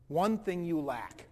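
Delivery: slow, weighty delivery leaning on one; a slow, solemn verdict; slow, grave. Retold or imitated. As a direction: let each word land slowly. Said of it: "he said this to me".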